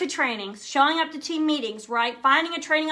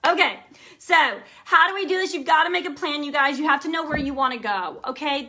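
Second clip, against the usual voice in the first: ordinary talk, nothing marked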